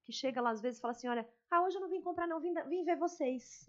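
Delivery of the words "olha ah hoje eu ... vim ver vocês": lightly voiced cheerful customer; a hint of a chatty client dropping by; friendly customer voice. (cliente simpática, voz leve)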